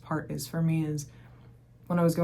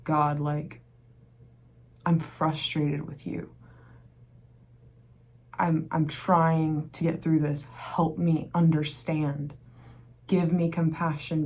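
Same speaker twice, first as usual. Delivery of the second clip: earnest prayer; slower than usual. Retold or imitated. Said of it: "I would pray about it".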